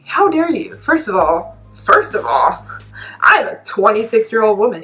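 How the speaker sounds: angry retort. Retold or imitated. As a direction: relive an indignant comeback. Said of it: "I was so angry".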